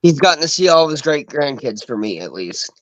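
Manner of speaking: speaking through a yawn. Real, not acted. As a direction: yawn while talking. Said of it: "I keep yawning".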